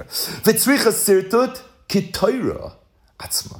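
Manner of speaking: slow reading, "Torah" set apart before a hushed "Atzma"; careful, spaced-out reading pointing up "Torah"; stress on Torah. Shown as a demonstration. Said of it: "It doesn't say ki sefer Torah".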